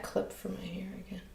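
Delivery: whispering. Real, not acted. Aside while painting on stream.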